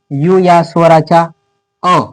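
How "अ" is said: the letter U sounded as "अ"; short vowel अ. Shown as a demonstration. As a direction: say a short, separate "अ". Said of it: "असा उच्चारण". ("अ" असा स्वतंत्र उच्चार)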